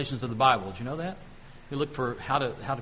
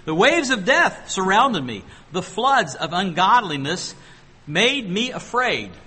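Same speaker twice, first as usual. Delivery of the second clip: slow, louder, pleading verse reading; slow, louder dramatic scripture reading; 2 semitones higher, 4 dB louder, slower than usual. Shown as a demonstration. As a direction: read it as if the waves are on you. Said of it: "put yourself in this position".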